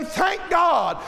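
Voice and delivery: mock congregational exclamation; imitated praise call. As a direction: call it out like someone in the pews. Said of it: "Somebody would say".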